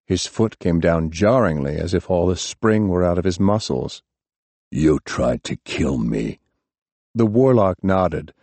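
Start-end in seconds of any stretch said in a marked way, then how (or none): 4.7-6.4 put-on lower, slow, worn-out young man; drained voice of a maimed hero; Hap, wounded. A narrator's reading. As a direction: Hap accuses the warlock, weak from shock. Hap confronts warlock.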